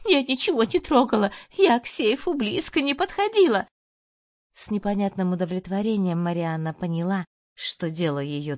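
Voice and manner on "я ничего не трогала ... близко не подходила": high, loud, weepy pleading; tearful protest. A narrator's reading. Maid crying her innocence to the husband, high weepy protest. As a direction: plead through tears, pitched high. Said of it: "плачущий голос Лизаветы".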